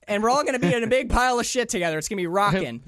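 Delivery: fired-up, rising to a loud, fast preachy rant; imitating a wild-eyed man shouting his gospel; building from eager to yelling; excited rant. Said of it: "He's like".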